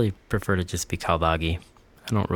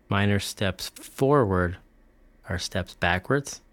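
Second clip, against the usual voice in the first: slow incredulous; much slower than usual. Real, not acted.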